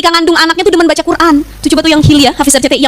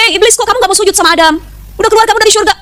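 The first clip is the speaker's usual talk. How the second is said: mild anger; 7 semitones higher than usual. Acted. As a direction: scold and order him out, mildly acted. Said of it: "Marah nih Allah". (teguran marah ringan, nada tinggi)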